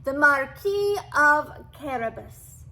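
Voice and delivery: slow, loud purring welcome; a cat purring sweetly to the king. A narrator's reading. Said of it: "he purred".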